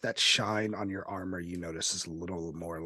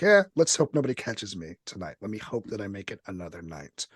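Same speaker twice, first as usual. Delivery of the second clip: quick, offhand prayer; casual, hurried mumbled wish; passive prayer; 3 dB louder, faster than usual. Acted. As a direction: toss off a half-hearted prayer, quickly. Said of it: "pray to the night in kind of passive ways".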